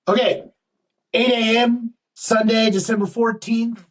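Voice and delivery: hammed-up French accent, announcing times. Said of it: "my annoying French accent there".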